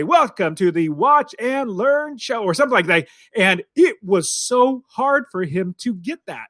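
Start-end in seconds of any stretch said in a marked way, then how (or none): 0.0-2.4 slow, lively announcer read; coaching demo. Shown as a demonstration. Son demonstrating intro to Dad, lively and slow. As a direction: sell the show name with lift. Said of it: "coaching him how to say".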